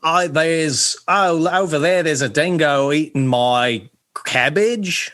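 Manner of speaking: lightly put-on Australian, excited about the dingo; mild Aussie bushman voice; Australian accent. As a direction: play a hint of a bushman spotting a dingo. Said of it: "Do an Australian accent".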